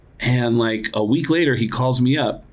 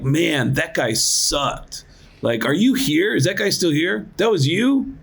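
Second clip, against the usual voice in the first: high sneering jeer, rising questions; mocking heckle; 4 semitones higher, slower than usual. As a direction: taunt the comic from the crowd. Retold hecklers mocking him.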